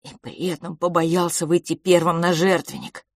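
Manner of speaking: usual speaking voice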